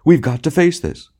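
hammed-up tragedian laying down the law; manly bullying. A narrator's reading. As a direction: push it loudly, bringing her to her senses. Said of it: "He was using his manly, bullying tone".

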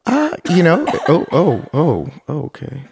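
coughing on water mid-sentence; sputtering after swallowing wrong; choking on a drink. Real, not acted. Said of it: "she's choking".

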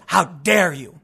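imitated indignant scold, not shouted; mock scowling rebuke. Scowling at someone on the street, mock indignant rebuke. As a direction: scowl the words as a mock accusation. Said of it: "scowled and said".

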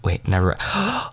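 slow, halting puzzling-out; slow confused repeat; puzzled pondering. Retold or imitated. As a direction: work it out slowly, trailing off.

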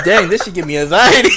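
laughing through his own reaction; half-laughing as he quotes himself. Retold or imitated. Editor laughing about overlapping voices. I'm like.

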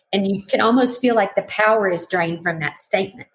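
ordinary talk, nothing marked

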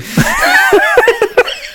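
high shouted burst of laughter. Real, not acted. Laughing at the memory.

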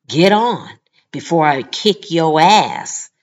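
loud threat. Retold or imitated. Angry shopper threatening the manager in front of her son, loud and slow. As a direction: bark it out so the whole store hears. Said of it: "And she says it loudly".

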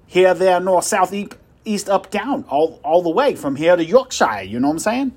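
puffed-up boasting at full volume; loud bragging. Acted. Salesman bragging loudly.

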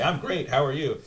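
mock the automatic cheery answer; fake polite American. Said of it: "And you always say".

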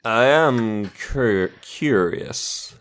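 a hint of a sleazy villain; changed villain voice. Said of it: "Well, I've changed my voice again".

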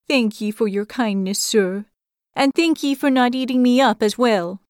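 small creature voice, a touch downcast; a tiny creature's meek farewell; disheartened hedgehog. Acted. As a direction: thank the bear sadly but politely. Disheartened hedgehog thanks bear.

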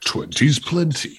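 slow, smug drawl; deadpan sneering delivery; Jeremy Clarkson. Retold or imitated. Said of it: "Clarkson saying".

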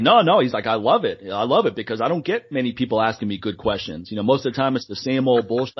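lightly imitated guest doctor; Doctor Gordon. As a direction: slip into a mild impression of the doctor. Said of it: "why did you automatically go into Doctor Gordon voice".

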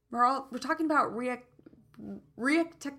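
thick tongue tripping on words; stumbling over a swollen tongue. Real, not acted. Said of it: "My tongue is so big today and swollen".

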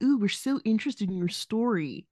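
gushing, fake-eager put-on voice; mock news producer. Mocking a news station that gushes over the story. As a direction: sarcastically play a fawning reporter. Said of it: "would look at this and be like".

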